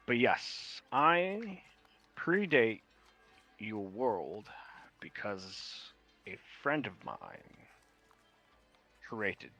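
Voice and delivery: put-on measured, secretive old mage; Winston's voice. NPC Winston speaks.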